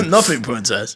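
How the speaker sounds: put-on lightly babyish, th as f; mock oddball sign-off; comic put-on accent. Waiter out of stock to a customer, lightly comic babyish accent. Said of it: "I've been saying that accent all weekend".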